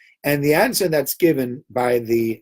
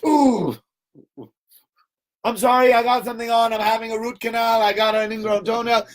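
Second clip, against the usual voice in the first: much higher, flustered excuses tumbling out; panicky mock excuses; 8 semitones higher than usual. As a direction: squeak out excuses to escape. Posse making excuses to flee.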